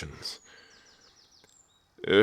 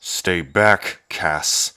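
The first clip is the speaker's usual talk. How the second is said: sharp warning; 4 dB louder, much slower than usual. Acted. Protects companion from sister.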